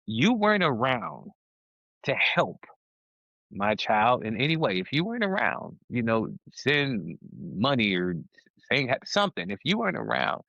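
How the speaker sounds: emphatic, pitch jumping on key words; real pent-up feeling. Real, not acted. Father to absent relatives about his child, pent-up feeling. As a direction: let some resentment into your voice, pausing between phrases. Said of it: "you can hear that in my voice".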